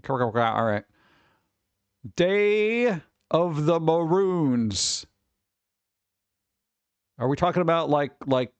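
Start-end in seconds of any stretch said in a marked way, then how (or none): 2.2-5.1 Bugs Bunny voice. Pretend. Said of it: "I'm going with Bugs Bunny for that".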